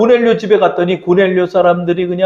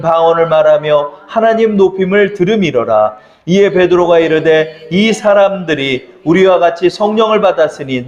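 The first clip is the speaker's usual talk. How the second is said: scripture reading. Acted. Pastor leading the congregation in reading the passage aloud. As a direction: read the passage together, evenly.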